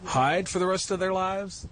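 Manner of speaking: fighting tears while asking; emotional. Real, not acted. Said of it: "Sorry, now I am emotional".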